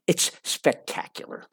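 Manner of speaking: whispered, slow and savouring; breathy whisper. Acted. Narrator marvels at Nice, whispered. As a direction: breathe it out like a secret.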